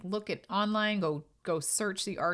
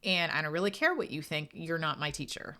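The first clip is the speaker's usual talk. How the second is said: raised, firm pushback at a teacher; defiant retort. Retold or imitated. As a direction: stand your ground, voice lifted. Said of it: "And I'm like".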